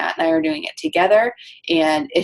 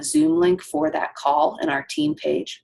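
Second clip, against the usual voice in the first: burping; slower than usual. Real, not acted. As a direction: voice caught by a burp. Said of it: "Excuse me, I'm, like, burping at you".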